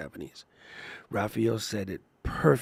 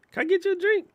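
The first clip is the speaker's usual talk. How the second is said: mock smooth ask; 3 dB louder, much faster than usual. Acted pickup line.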